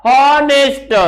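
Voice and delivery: "हॉनेस्ट" with a sounded h; common mispronunciation. Shown as a demonstration. Teacher repeating what people say, हॉनेस्ट with audible h. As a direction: voice the initial h in हॉनेस्ट. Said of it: "क्या कहते हैं?".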